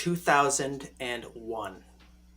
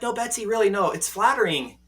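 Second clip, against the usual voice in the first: earnest reassurance; 5 semitones higher, 3 dB louder than usual. Retold or imitated. Acts out reassuring his embarrassed date.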